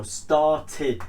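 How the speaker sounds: "started" in two clear parts, star-tid; id ending. Shown as a demonstration. Teacher repeating the model for students, "started" as star-tid. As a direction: end "started" on a short "tid". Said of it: "that's the first way of pronouncing".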